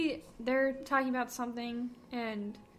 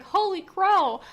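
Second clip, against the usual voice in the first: Bella quote; 8 semitones higher, 10 dB louder, slower than usual. Retold or imitated. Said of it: "Bella says things like".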